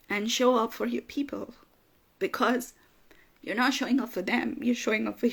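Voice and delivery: real tears while encouraging listeners; tearful. Real, not acted. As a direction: push on through tears with a hushed whisper. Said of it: "I'm flipping crying".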